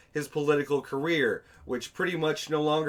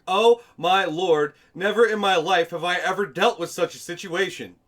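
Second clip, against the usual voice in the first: mocking dramatic complainer; 2 semitones higher, 5 dB louder than usual. Narrator mocking the man's dramatic opening to police. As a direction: overdo the indignant theatrics. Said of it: "being highly animated".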